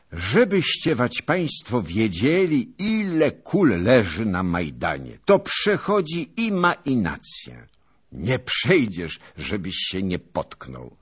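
eager to share the battlefield sight; lively young knight. A narrator's reading.

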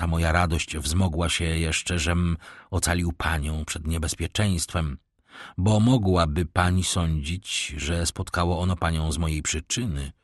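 lightly voiced count, composed and a little low; courteous count. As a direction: explain with measured courtesy. (uprzejmy hrabia, spokojnie i nisko)

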